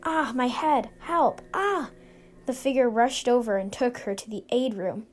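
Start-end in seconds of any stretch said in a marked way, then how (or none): 0.0-1.9 higher-pitched yelp of pain; pained cry for help. Acted. May cries that her head hurts, acted pained cry.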